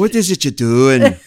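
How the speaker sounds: Northern English attempt slipping into Scottish; loud, badly faked Scottish-sounding accent; botched Northern English accent. Shown as a demonstration. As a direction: aim for Northern English, land near Scottish. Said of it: "You're Irish. No, Scottish".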